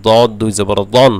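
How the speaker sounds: thick, emphatic Arabic d in দদ and দন; heavy Dad. Shown as a demonstration. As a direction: spell out দদ দুই জবর দন with full, heavy d sounds. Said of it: "দদ মোটা করতে হবে".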